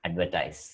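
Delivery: advertise ending in a clear "tize"; model pronunciation. Shown as a demonstration. Teacher repeats the verb form for students, careful. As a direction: say advertise with a long "tize" at the end. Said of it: "This is advertisement".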